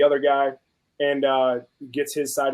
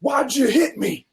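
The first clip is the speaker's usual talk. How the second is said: other driver's question; 11 semitones higher, 3 dB louder, slower than usual. Retold or imitated. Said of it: "he's like".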